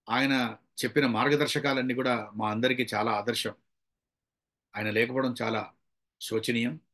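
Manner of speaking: low, slow and halting, with long pauses; slow condolence speech. Shown as a demonstration. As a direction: speak slowly as at a condolence meeting. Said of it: "అప్పుడు మనం స్లోగా చెప్పాలి". (సంతాప సభలో లాగా నెమ్మదిగా)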